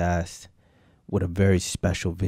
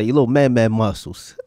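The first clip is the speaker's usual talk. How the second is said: quoting Frog; 6 dB louder than usual. Retold or imitated. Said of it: "Like Frog would say".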